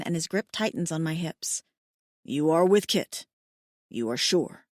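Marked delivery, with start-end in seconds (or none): 2.2-4.7 low, wondering male voice; mate asks his partner in awe if she is pregnant; stunned alien mate. Acted. Hayden stunned by the news.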